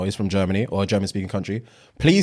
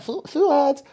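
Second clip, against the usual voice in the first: high-pitched French-accented imitation; French-accented name. Woman saying his name sexily, high French accent. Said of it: "the way she says my name".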